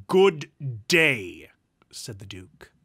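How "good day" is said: loud, drawn-out final word; emphatic dismissal. Acted. Duke refusing his nephew's friendship, loud dismissal. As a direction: end it with two loud, weighty words.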